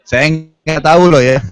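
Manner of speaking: a laughing disclaimer. Real, not acted. Penceramah bercanda kepada jemaah soal gosip, sambil tertawa. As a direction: laugh it off while saying it.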